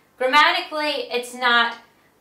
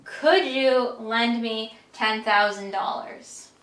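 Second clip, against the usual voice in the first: slower, careful polite ask; polite request; slower than usual. Shown as a demonstration. Friend politely asking for a big loan, slow and careful. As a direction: mind your manners asking a friend. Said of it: "have their manners since they're asking you for a lot of money".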